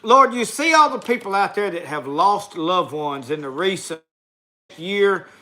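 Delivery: steady heartfelt spoken prayer; closing prayer for the audience, earnest and steady. Acted. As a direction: pray over the viewers sincerely. Closes the show with prayer.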